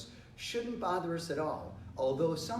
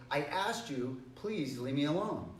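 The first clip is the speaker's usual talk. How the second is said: mildly firm but still nice; slight push on "asked", voice still polite; a little stronger; slower than usual. Shown as a demonstration. Teacher models asking a friend a second time, mildly firm. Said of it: "so we're a little stronger".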